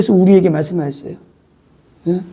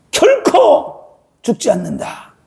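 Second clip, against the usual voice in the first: Satan's bold claim; slower than usual. Acted. Satan confidently telling Eve she won't die. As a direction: fling 결코 up and let the rest sink.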